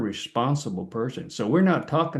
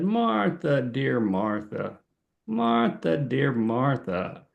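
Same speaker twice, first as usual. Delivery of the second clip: tender address as Jesus; slower than usual. Acted. Jesus gently addressing Martha in the kitchen, tender and slow. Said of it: "Jesus was saying when he said".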